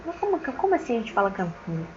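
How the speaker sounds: puzzled self-quote. Retold or imitated. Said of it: "Eu fiquei assim, pensativa".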